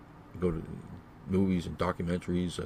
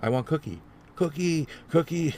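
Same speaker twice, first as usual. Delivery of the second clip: put-on very high, loud child's shriek for cookie; screaming child; 9 semitones higher, 4 dB louder than usual. Kid in bakery screaming at his mother, high shriek. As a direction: wail for the cookie like a toddler. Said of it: "he starts screaming for the cookie".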